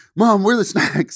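high-pitched yelling.

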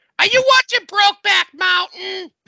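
very loud, very high-pitched shouted blurt. Retelling a parent's question on a plane: imitating mother shouting. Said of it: "as loud as can be on the plane".

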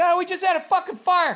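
yelling at a very high pitch. Retelling a phone call where a guy yelled at him, imitating the guy yelling. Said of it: "The guy called me up yelling at me".

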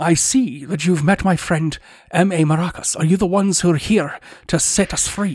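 put-on Scottish accent. Playing a character in a group scene, Sean Connery accent. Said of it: "I'll attempt Sean Connery".

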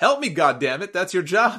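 mock high, mild half-yelled outburst. Retelling how a beaten man in pain turned to a cop for help, imitating someone yelling. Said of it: "he starts yelling at the cop".

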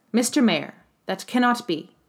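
unwavering, resolute, firm, steady tone. An inspector answers the mayor; firm voice. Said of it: "with downcast eyes but a firm voice".

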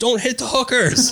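very high-pitched shouting yell. Retelling a passenger's warning during a tight squeeze, imitating someone yelling. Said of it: "in my mind, it was yelling".

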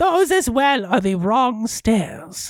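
put-on high, ancient-sounding demonic old man voice. Voicing a character heard as the players try the stairs, Big Trouble in Little China demon man. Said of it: "which I'm trying to get the old man, demonish guy".

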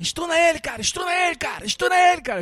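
crazed, frantic, very high shouting. Describing how he kept yelling madly, retelling a frantic shout. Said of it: "ele ficava gritando, assim, enlouquecidamente".

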